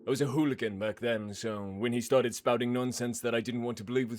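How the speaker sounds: a lightly voiced hard man, cool and matter-of-fact; confessing hooligan. To the priest, a lightly voiced hard man confessing coolly. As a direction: confess a killing without remorse.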